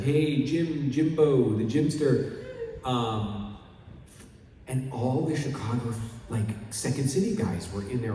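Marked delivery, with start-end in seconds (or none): 0.0-2.3 light cheesy ad read; a hint of the sketch voice; commercial line. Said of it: "the line was like".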